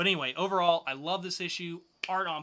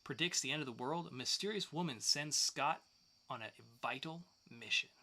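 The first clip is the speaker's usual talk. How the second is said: announcer read; 3 semitones higher than usual. Acted. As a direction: sell the new comics like a promo host. Reading the weekly pull segment.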